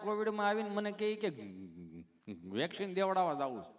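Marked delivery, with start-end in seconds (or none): 2.6-3.7 lightly voiced stammering friend; a hint of sticking on the words; tongue-tied Gabho. Gabho asking his friend for the vaccine, mildly tongue-tied. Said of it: "ચોંટે અટકે".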